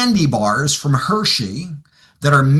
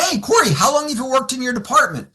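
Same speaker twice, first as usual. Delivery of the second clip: lightly pitched-up, offhand question; casual; 7 semitones higher than usual. Acted. Coach casually sounding out a client, casual. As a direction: ask it casually, higher than usual. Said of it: "I do it very casually".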